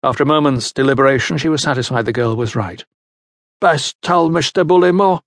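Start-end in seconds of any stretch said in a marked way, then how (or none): 3.6-5.2 higher, lightly voiced older woman; a hint of a weary old farmhand woman; older countrywoman. A narrator's reading. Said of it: "she said".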